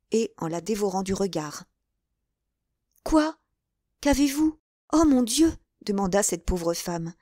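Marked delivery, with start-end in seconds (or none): 3.0-5.5 higher-pitched startled questions; anxious little outcry; alarmed. Acted. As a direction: react with sudden alarm. Novice alarmed by milady's cry.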